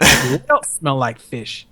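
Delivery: slow, drawn-out leading question; insistent drill instructor. Retold or imitated. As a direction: imitate an instructor pressing for an answer. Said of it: "You heard me, god damn it".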